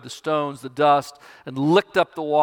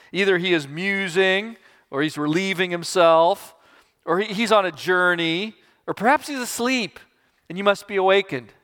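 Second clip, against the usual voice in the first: mocking; 4 semitones higher than usual. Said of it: "Elijah mocked them".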